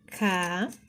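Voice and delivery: "cabelo" broken into ca - be - lo; long pauses between each piece of "cabelo"; slow syllable-by-syllable. Shown as a demonstration. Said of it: "bem devagar, cada pedacinho dela".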